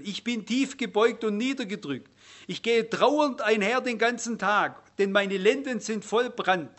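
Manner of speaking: deliberate Bible-reading delivery; scripture reading. Acted. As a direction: read the lament out solemnly, phrase by phrase.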